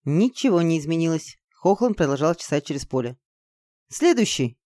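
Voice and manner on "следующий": brisk higher-pitched command. Acted. Girl commanding Izergil to move on, commanding. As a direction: call for the next one. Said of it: "скомандовала я".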